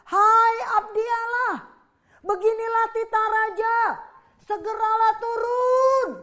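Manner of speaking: officer yelling an order at the prophet; shouting officer. Acted. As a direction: call out rudely from far below. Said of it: "dia teriak lagi".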